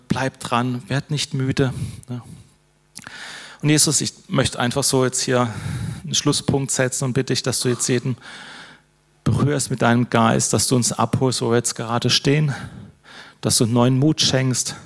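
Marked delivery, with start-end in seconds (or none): 3.6-14.8 earnest spoken prayer to Jesus; closing prayer. Acted. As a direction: pray it simply and sincerely. (Schlussgebet, ernst und schlicht)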